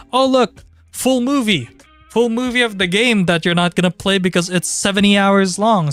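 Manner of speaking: bright hyped-up video title read; cheery promo voice. Retold or imitated. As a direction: pitch it high like a clickbait title.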